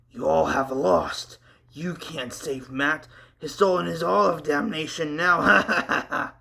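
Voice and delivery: a lightly voiced demon, only a little changed; hint of a possessed growl; a demon speaking through the body, barely put on. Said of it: "said with a deep, demonic, possessed voice".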